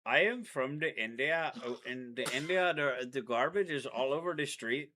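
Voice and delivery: lightly put-on Indian accent; mock Indian accent. Boyfriend doing a mock Indian accent for his girlfriend. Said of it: "an Indian?".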